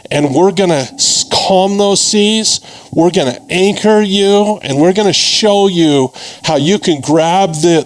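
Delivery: rising excitement to rally a crowd. Real, not acted. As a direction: fire up the room. Rallying the crowd after market crash.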